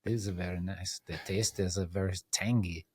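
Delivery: soft mock Italian accent, savoring the taste; lightly hammed Italian accent. Praising the tangy sandwich to the host, a soft mock Italian accent. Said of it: "talk to me in an Italian accent".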